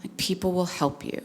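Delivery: calm him down softly; reassuring mother. Retold or imitated. Mother comforting her crying son on the bus, softly reassuring.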